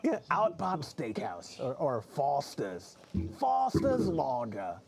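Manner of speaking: slow, drawn-out mock Australian ad voice; hammed-up slow Australian commercial read; Australian accent. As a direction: drag out the brand names in a bad Australian accent. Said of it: "off the old commercials".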